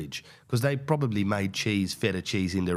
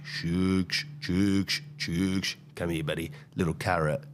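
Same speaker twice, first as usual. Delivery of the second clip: coaxing; 3 semitones lower than usual. Retold or imitated. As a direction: gently coax the animal across. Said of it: "delicately brings him over".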